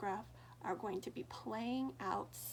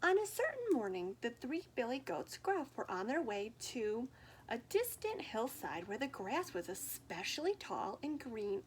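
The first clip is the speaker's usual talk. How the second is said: put-on lively read-aloud for children; story reading. A narrator's reading. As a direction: tell it like a picture book at story time.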